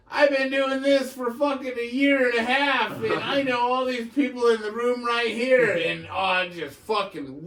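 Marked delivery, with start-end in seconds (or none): 0.1-5.7 high, loud mocking parody; mocking comeback. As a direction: throw his brag right back at him. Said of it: "the next person up goes like this".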